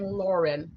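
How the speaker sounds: Lauren said slowly and carefully; careful pronunciation. Shown as a demonstration. Teacher checking a student's name, Lauren said slowly. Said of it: "am I pronouncing it correctly".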